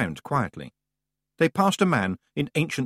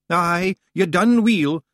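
drawn-out, louder Scots approval; slow Scots praise; 8 semitones higher, 6 dB louder, slower than usual. A narrator's reading. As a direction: savour the compliment. Rob Anybody praises Roland.

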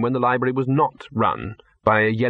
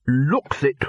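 blunt; 3 semitones higher than usual. Acted. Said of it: "said the Arch-Chancellor bluntly".

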